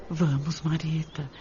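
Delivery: soft, tender urging; softly comforting a grieving girl; gentle coaxing. Acted. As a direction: coax her gently. Consoling Marita to dry tears.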